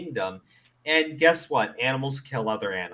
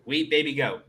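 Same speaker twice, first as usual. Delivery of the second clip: ordinary talk, nothing marked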